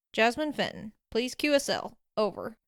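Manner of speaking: upbeat radio call with a hint of twang; rough upbeat radio voice. Radio operator hailing Jasmine Fenton, rough and upbeat. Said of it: "rough, upbeat voice with its slight southern twang".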